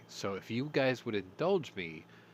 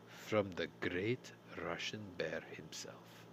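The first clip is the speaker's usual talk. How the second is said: slow, hushed, ominous whisper; dramatic whisper; 4 semitones lower, 7 dB quieter, slower than usual. Acted. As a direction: whisper it like a dire secret. Mock dramatic news announcement.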